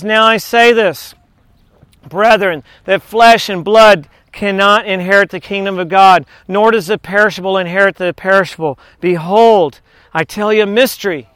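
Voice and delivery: measured, earnest scripture reading. Acted. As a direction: read the verses like a preacher. Reads scripture aloud in sermon.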